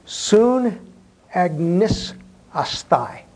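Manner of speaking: "Sun agnisastai" drawn out very slowly, part by part; slow demonstration. Shown as a demonstration. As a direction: sound out the Greek "agnisastai" slowly with pauses. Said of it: "I'm gonna say it slowly".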